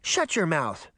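lightly voiced cross child; understated childish outrage; mild indignant cry. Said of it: "Daphne cried".

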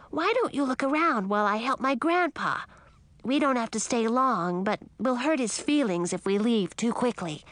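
put-on a lively young dragon asking politely. Young dragon Ralph speaks.

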